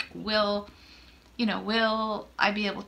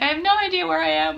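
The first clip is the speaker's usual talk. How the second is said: frantic; 7 semitones higher, 7 dB louder, faster than usual. Retold or imitated. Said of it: "I'm like".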